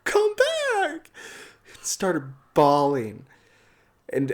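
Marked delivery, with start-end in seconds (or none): 0.0-1.1 high, thin mock plea; imitated movie plea. Retelling the Titanic scene that caused bawling, imitated high plea. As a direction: imitate a film heroine calling out, much higher than usual. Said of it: "She's like".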